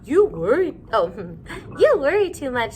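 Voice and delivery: a fond mother chiding her worrier; teasing mother. Acted. Mother scolds gently, laughing.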